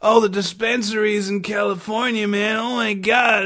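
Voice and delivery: imitated whiner griping about the government; mock complaining. Host mimicking people who only sit around and complain, whiny mockery. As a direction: put on a complainer's voice, all helpless grievance. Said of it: "we complain about it".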